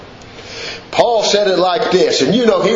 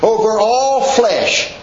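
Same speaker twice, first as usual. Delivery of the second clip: fervent preacher's scripture reading; preaching scripture; 3 semitones higher than usual. Acted. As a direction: proclaim the verses like a pulpit preacher.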